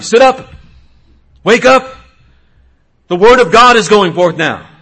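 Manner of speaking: loud, high preaching shout; rousing command. Acted. Preacher orders his own body to listen, rousing shouted command. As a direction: shout yourself awake, full force.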